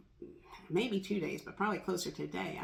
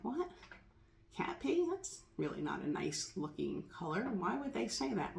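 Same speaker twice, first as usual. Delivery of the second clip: put-on shocked child; 5 dB quieter than usual. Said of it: "And I'm like".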